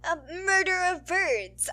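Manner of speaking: loud high hello to fans; bubbly outro greeting to listeners; excited greeting. Real, not acted. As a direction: call out a playful welcome. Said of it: "I don't even know what I'm saying".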